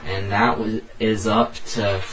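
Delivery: breathless after reading aloud; winded, catching breath. Real, not acted. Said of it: "man, I'm just out of breath".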